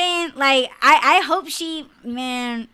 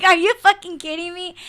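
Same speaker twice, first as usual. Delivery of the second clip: high laughing outrage; laughing disbelief; 7 semitones higher, 5 dB louder than usual. Real, not acted. Reacting to comments with laughing, higher disbelief.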